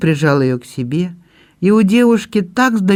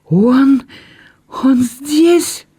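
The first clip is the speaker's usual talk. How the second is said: much higher, stammering gasp of disbelief; astonished exclamation; 9 semitones higher, much slower than usual. Acted. Belinda learns Andrew waits outside, astonished. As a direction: catch your breath, then rise on здесь. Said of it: "изумлённо воскликнула Белинда".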